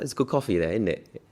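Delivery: lightly done British accent, tag question lifted; a hint of British, end on isn't it; a light British accent on the coffee line. Shown as a demonstration. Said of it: "with a British accent".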